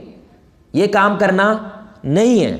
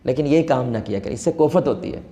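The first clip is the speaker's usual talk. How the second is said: gentle plea; 5 semitones lower, 3 dB quieter than usual. Retold or imitated. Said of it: "میں نے کہا".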